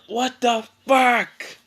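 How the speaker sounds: high, drawn-out cartoon yell; mock yell. Kankuro reacting to his broken hand, hammed-up yell. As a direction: wail it slowly in exaggerated outrage. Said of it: "Kankuro just yells".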